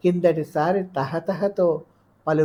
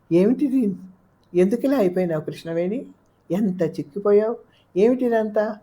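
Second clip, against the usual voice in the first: high, louder questions of amazement; taken aback, pitched up; astonished questioning; 6 semitones higher, 4 dB louder than usual. A narrator's reading. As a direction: ask in dismay, voice lifted. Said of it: "విస్మయంతో అడుగుతున్న కొద్దీ".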